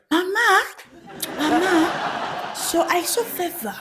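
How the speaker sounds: high-pitched tattletale voice; high, hushed mock informer; church informant. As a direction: imitate a tattler reporting to Mama. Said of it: "They'll be like".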